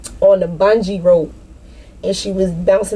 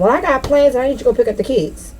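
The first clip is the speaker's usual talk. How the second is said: lightly mocking a controlling partner, pitched up; 5 semitones higher, faster than usual. Voicing the partner who cancels her plans, mock. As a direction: toss off the excuse quickly, a hint of mock voice. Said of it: "and then all of a sudden".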